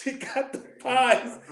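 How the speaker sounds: slow emphatic. Real, not acted. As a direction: spell it out slowly, word by word. Repeats it slowly for emphasis.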